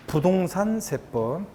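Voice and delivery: "부동산 세법" drawn out slowly and evenly. Shown as a demonstration. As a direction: say "부동산 세법" very slowly, no syllable punched. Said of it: "잘 들어보세요". ("부동산 세법"을 고르게 천천히)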